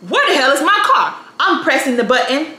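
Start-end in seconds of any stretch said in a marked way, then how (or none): 0.1-1.1 higher-pitched exasperated question; alarmed bewilderment. Retold or imitated. Woman scanning the parking lot, alarmed and bewildered. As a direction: replay the panic of searching.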